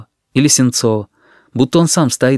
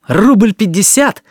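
high, slow, loud outcry; indignant shout; 10 semitones higher, 5 dB louder, slower than usual. A narrator's reading. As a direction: cry it out in disbelief, drawn out. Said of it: "крикнул Алёшка Смирняков". (возмущённый протяжный крик)

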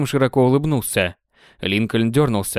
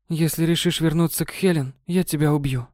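Kate's playful threat; 5 semitones higher than usual. Acted.

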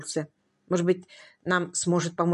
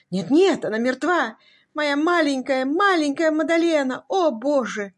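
higher, louder lament for his little Madalena; grieving lament; 6 semitones higher, 4 dB louder than usual. A narrator's reading. Husband lamenting his dead wife to the doctor, grief-stricken cry. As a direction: mourn her out loud, voice rising.

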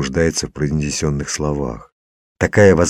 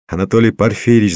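raised, hurried cry for attention; yelling; 5 semitones higher, 4 dB louder, faster than usual. A narrator's reading. Man yells urgently to the professor, yelling. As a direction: cry out the name fast and high. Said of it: "завопил я".

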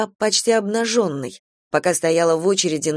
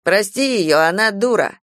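curt; 2 semitones higher, 3 dB louder than usual. Acted. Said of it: "коротко сказал некромант".

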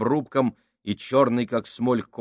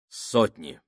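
emotionless; 4 semitones lower than usual. Acted. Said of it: "ответил Кук без эмоций".

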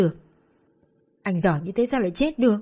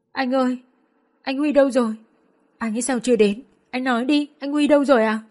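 higher and rising, sobbing questions; sobbing plea; 5 semitones higher than usual. A narrator's reading. Girl sobbing, asking her friend where Huy is. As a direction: break down sobbing, demanding an answer. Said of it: "òa khóc nức nở".

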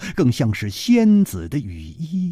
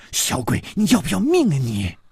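through gritted teeth; 4 semitones higher than usual. Acted. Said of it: "咬着牙说".

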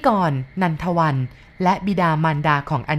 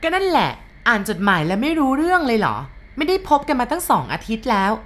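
higher, sharp impatient questioning; snapping retort; 6 semitones higher than usual. A narrator's reading. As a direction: fling the question back rudely. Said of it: "ตวัดเสียงถาม". (ตวัดเสียงถามอย่างหงุดหงิด)

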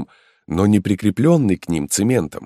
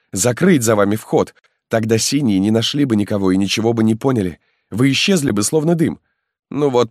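put-on higher, faster, worried young man; alarmed young peasant; 7 semitones higher than usual. Halmalo warns the marquis the stone is stuck, alarmed. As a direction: push out the bad news in a rush.

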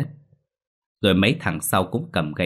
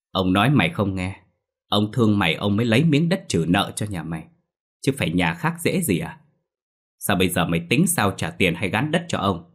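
low, calm menace. Acted. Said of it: "với giọng trầm trầm".

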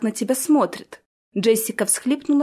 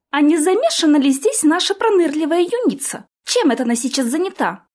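higher, louder sly suspicion; suspicious; 8 semitones higher, 3 dB louder than usual. A narrator's reading. Orti suspecting the sly girl, pointed suspicion. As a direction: sniff out the culprit.

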